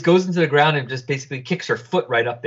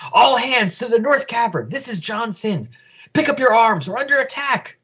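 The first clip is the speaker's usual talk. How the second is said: high, urgent order over the comm; rally the troops in a hurry; commander's alarm call; 10 semitones higher than usual. Acted. Johnson calling all hands to the cavern, urgent order.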